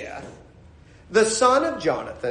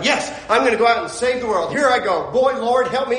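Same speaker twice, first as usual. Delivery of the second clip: mildly hammed-up keen resolve; fired up; 3 semitones higher, 3 dB louder than usual. Churchgoer waking up to save the world, mock fired-up. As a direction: act lightly pumped up and ready. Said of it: "he's got you all fired up".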